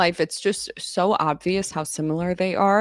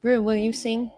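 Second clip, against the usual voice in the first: higher, cooing voice for the dog; baby talk to dog; 4 semitones higher than usual. Acted. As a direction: coo it to the pet. Talking to her dog Rue.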